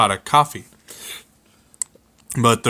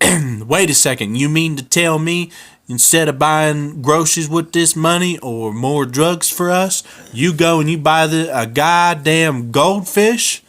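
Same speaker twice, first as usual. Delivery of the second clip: angry scolding; 5 semitones higher than usual. Acted. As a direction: scold him in disbelief. Charlena berates Cletus over money.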